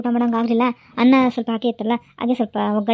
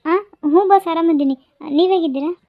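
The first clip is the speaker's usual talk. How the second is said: nervous; 3 semitones higher, 4 dB louder than usual. Acted. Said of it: "boss ಹತ್ರ ಸುಳ್ಳು ಹೇಳೋ ಅಷ್ಟೊತ್ತಿಗೆ".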